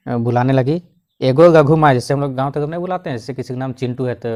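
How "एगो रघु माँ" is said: calling out. Retold or imitated. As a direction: call out to the house from the door. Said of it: "वो भी चिल्लाने लगी".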